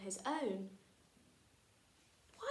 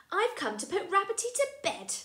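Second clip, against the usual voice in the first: put-on higher, eager child voice; little boy voice; 10 semitones higher, 5 dB louder than usual. Freddy explaining to George why he came, higher and childlike. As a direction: sound small and sweet.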